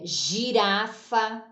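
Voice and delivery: "girafa" slowly with initial zh; careful syllabic "girafa"; soft G. Shown as a demonstration. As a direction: stretch "girafa" as zhi-ra-fa. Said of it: "para o som G".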